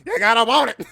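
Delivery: high, very loud joking outburst; mock Jefferson belting. Streamer teasing fans wanting Jefferson, high loud belting. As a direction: belt it out hard as a gag. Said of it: "want me to do my Thomas Jefferson voice".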